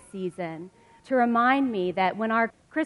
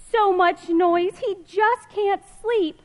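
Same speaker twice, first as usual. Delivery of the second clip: higher, louder, slow; exasperated; 10 semitones higher, 7 dB louder, slower than usual. Acted. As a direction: throw up your hands at the noise. Chaotic stable scene.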